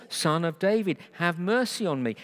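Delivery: retold beggar's cry. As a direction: call out for mercy, lightly imitated. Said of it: "he cried out all the more".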